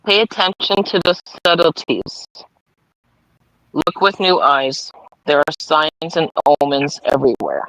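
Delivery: measured read-aloud with long pauses; affirmation card reading. Acted. Reader giving Debbie her awareness card, measured affirmation reading. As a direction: read it out deliberately, phrase by phrase.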